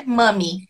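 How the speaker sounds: "Mami" with the first vowel almost an A; vowel close to A. Shown as a demonstration. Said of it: "Quase um A".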